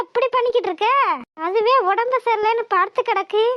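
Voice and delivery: high, sharp rebuke of her son; angry scolding. Acted. Mother rebuking her son for shouting at the sick girl, high and angry. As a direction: scold him hard for yelling.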